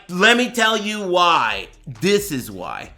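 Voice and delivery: slow, emphatic mock anger; imitating angry viewer. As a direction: act out his anger word by slow word. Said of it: "he's angry, but, and he's like".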